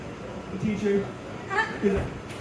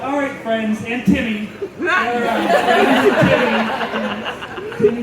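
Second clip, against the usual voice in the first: put-on sing-song teacher calling the kids, stressing Timmy; a teacher sighing over one kid; exasperated teacher voice; 5 dB louder, slower than usual. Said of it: "that one kid that's like".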